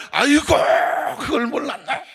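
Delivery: high-pitched mock merry realization; retold amused exclamation. Scolded member suddenly amused, retold merry exclamation. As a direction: imitate someone suddenly tickled by a scolding. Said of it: "갑자기 막 웃으면서".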